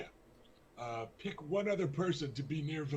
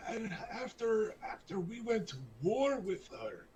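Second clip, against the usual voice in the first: put-on weepy drunk; 7 semitones higher than usual. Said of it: "getting towards the weepy drunk".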